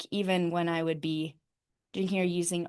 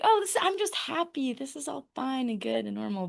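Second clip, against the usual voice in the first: higher-pitched, airy-headed self-parody; mock blissed-out happiness; 5 semitones higher than usual. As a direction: imitate yourself insisting all is lovely. Mimics herself acting blissfully high.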